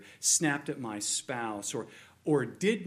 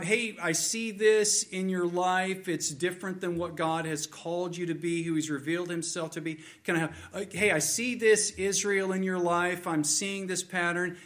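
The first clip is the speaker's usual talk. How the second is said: raised, urgent appeal of a prophet; prophet's warning; 4 semitones higher than usual. Acted. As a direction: plead with Israel in a higher voice. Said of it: "Prophets have come to the people".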